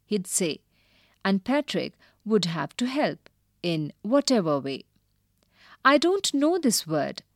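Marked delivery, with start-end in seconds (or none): 5.8-7.2 high squeaky little voice; squeaky elf voice. Acted. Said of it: "the elf squeaked".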